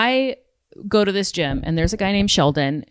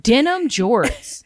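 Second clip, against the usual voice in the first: laughing; 7 semitones higher, much slower than usual. Real, not acted.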